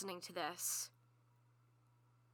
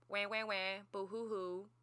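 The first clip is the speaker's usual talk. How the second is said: half-hearted mock wailing; mock crying; 2 semitones lower than usual. Imagining a quick stress cry over too much work, mock crying. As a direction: spell out a fake boo-hoo in your own voice.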